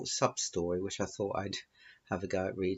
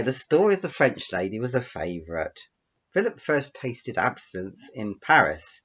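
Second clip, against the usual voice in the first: clear, emphatic storytelling; story narration; 2 semitones higher, 5 dB louder than usual. Acted. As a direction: read the tale out to your audience. Reads out own story.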